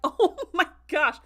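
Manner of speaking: loud, high, slow oh my gosh; shocked gasp. Retold or imitated. Vlogger acting her shock at the exploding heads, loud. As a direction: let the shock burst out. Reaction to gore.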